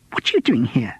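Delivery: unvoiced whispered hiss. A narrator's reading. Woman challenging intruders during rehearsal, hissed whisper. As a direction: whisper it sharply. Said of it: "a third female voice hissed".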